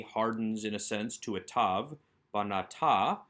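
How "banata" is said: "banata", weight on the ending "ta"; last-syllable stress. Shown as a demonstration. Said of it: "accent remains on that last syllable".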